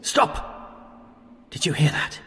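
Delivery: sharp hushed whisper, alarmed; urgent whisper. Acted. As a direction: whisper a warning to freeze. Old man hears the monster.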